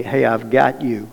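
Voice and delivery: slow, soft reassurance; calm him down gently; reassuring God voice. Retold or imitated. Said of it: "God was saying to me".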